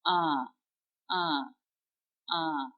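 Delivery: "Ah" with the mouth open top to bottom, through the nose; open nasal ah. Shown as a demonstration. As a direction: drop the jaw and let it ring in the nose. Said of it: "big open".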